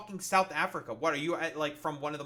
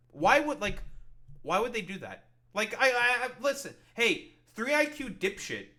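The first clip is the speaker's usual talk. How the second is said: higher, louder outburst; exasperated; 5 semitones higher, 4 dB louder than usual. Real, not acted. Streamer loses patience at the vlogger, louder and higher. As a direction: snap at him in disbelief.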